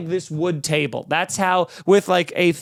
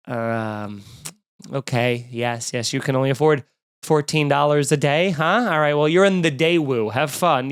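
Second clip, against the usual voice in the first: condescending rental clerk; 4 semitones lower than usual. Retold or imitated.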